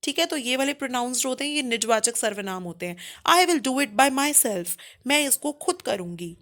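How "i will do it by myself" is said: very slow, spaced words; slow example read. Shown as a demonstration. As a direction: read it out slowly. Teacher reading example sentence. (धीरे उदाहरण पढ़ना)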